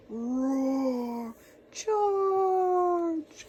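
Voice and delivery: loud battle cry rising high on charge; battle cries. Acted. King and dragon shouting as they fight, loud battle cries. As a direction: bellow it like a fighting army.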